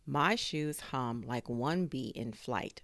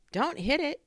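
high, louder urgent plea; pleading neighbour; 13 semitones higher, 7 dB louder than usual. A narrator's reading. Neighbour protecting the drone from a broom, high pleading. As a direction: jump in to stop the blow.

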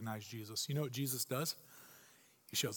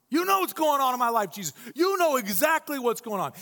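exasperated; 5 semitones higher, 4 dB louder than usual. Retold or imitated. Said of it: "we look back at Jesus and we say".

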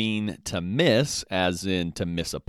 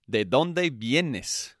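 slow model phrase; 4 semitones higher, much slower than usual. Shown as a demonstration. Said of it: "teacher models the phrase slowly".

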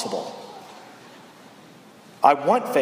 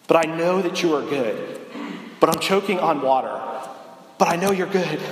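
acted prayer; 3 semitones higher than usual. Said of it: "It's kinda like this".

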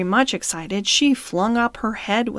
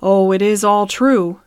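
sad; 4 dB louder than usual. Acted. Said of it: "said Merrylegs sadly".

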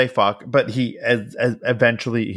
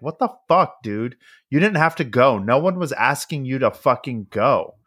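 exasperated pleading; 3 semitones higher than usual. Retold or imitated. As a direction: imitate a fed-up wife pleading. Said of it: "she's, like, essentially pleading".

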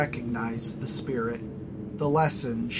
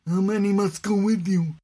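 wary voice; 7 semitones higher, 5 dB louder than usual. Acted. Crowd asks.

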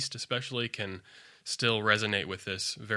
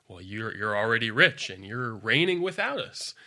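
mock-impressed, pitch swooping up toward the end; sarcastic flattery with exaggerated emphasis; 5 dB louder than usual. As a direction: quote it as tongue-in-cheek praise, a bit louder. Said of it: "a sarcastic way".

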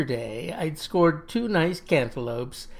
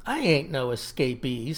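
sandpaper voice. Acted. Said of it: "his voice like sandpaper".

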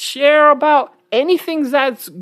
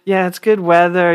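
mocking small talk; 4 semitones lower than usual. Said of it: "they're just like".

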